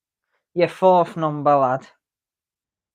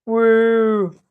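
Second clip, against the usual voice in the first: loud, high whoop; excited cheer; 7 semitones higher, 7 dB louder than usual. Real, not acted. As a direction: cheer it out, celebrating. Cheering a bingo win.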